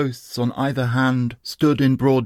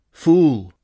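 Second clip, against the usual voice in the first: loud, higher scornful bark; scornful cry; 4 semitones higher, 6 dB louder than usual. Acted. Rustum cries out in scorn at the dying Sohrab. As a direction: spit out the insult loud. Rustum taunts his fallen foe.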